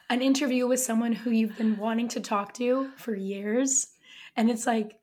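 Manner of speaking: hoarse, lost voice; raspy whisper. Real, not acted. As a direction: speak through a raspy, worn-out throat. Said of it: "we get to hear her with no voice".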